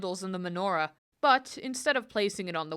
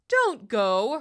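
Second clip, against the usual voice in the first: mock pleading; 4 semitones higher, 6 dB louder than usual. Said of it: "Herschel pleaded".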